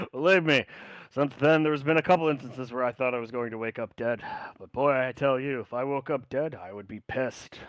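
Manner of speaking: put-on loud, laughing old sailor; jovial old friend chuckling; laughing joke. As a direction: boom through a laugh. Zachary jokes with laugh.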